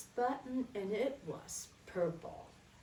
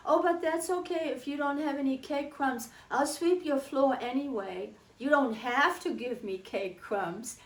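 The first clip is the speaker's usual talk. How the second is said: put-on higher, louder eager child pleading; little girl's eager voice; 4 semitones higher, 4 dB louder than usual. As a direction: sound like an earnest small girl. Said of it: "And I said".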